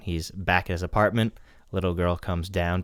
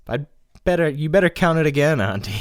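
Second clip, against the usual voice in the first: put-on higher, louder bratty girl voice; bratty little girl; 8 semitones higher, 7 dB louder than usual. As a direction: taunt like a bratty kid.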